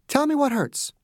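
no-nonsense bedside manner; doctor insisting on treating a patient; brisk Margaret. A narrator's reading.

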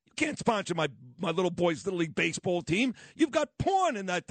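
lightly acted indignant parents, pitch leaping up; parents going nuts. Host imitates parents protesting to a team sponsor, mildly outraged. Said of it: "the parents went nuts".

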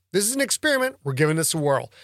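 ordinary delivery, nothing marked

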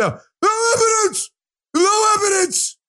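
high, slow, whiny mock cry; mocking whine. Host mocking Democrats who deny evidence, whiny and slow. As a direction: whimper it like a crybaby mocking Democrats. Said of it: "the Democrats say".

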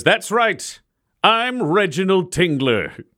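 lightly voiced arena champion; proud proclamation. Reginald answering the cheering crowd, proud proclamation.

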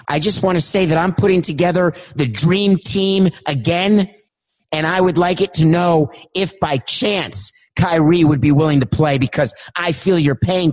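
pleading caller, mildly put-on voice; Isaiah Thomas. Isaiah Thomas impression in Zoom sketch.

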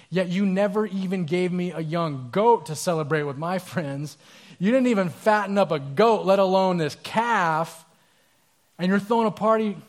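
put-on older son's loud, bitter protest to his father; indignant. Older son confronts his father.

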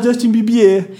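Justin Bibier ending in a stressed "bee-bee-EH"; mother's French-style pronunciation. Retold or imitated. Explaining mom's habit, Justin Bibier said "bee-bee-EH". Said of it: "aí ela fala".

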